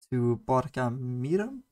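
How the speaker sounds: Borgarmýrum said slowly with Icelandic sounds; careful, slowed Borgarmýrum; Icelandic place name. Shown as a demonstration. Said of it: "I'm gonna try and say these ... in Icelandic".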